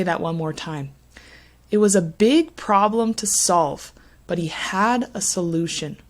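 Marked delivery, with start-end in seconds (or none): 1.7-6.0 "big", "problem", "solve" slightly louder and longer; rhythmic model sentence, leaning on "big problem to solve"; louder, longer stresses. Shown as a demonstration. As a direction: stress "had" and "solution", keeping small words light. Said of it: "slightly louder and longer stress words".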